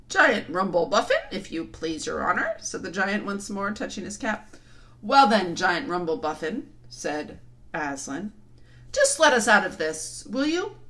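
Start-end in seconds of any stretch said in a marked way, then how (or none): 0.1-2.6 simple good-natured giant; dim giant cyclops. Acted. Humble giant answering. 5.0-10.8 loud call to the giant. Acted. Aslan calls up.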